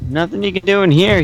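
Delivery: blacksmith voice. Acted. Game master voices the blacksmith.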